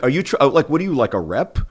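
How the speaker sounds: upset dentist. Retold or imitated. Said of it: "got upset".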